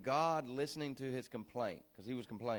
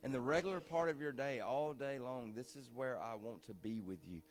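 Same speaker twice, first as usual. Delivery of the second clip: softer, lower, gentle divine voice; God speaking gently; 5 semitones lower, 7 dB quieter than usual. Acted. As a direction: speak as God, calm and near. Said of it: "and God said".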